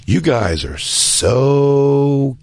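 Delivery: put-on high, very slow drawn-out drunk sneer; drunk insult. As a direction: stretch it out like a smug drunk. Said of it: "And he just goes".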